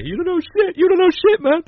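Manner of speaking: high imitated wrestler taunt; mock taunting. Wrestler taunting the Iron Sheik, high mock jeer. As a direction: jeer at him like Beetlejuice. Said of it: "I know, yeah".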